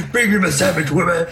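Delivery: lightly voiced mock caveman husband; mock chauvinist. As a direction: boss her around as a joke.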